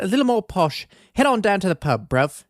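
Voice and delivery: mock posh British accent. Podcaster comparing accents for listeners, mock posh British. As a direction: put on a lightly posh British voice. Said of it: "British accent is a little more posh".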